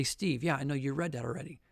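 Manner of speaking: soft, low mock aside; low, hushed imitation of a listener; imagined listener's objection. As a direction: voice an objector under the breath, quickly.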